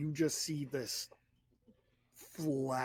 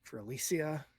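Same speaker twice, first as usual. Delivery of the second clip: quiet resolve; 2 semitones lower, 4 dB quieter than usual. Acted. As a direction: murmur it to yourself, resolved. Man speaks to himself in mirror.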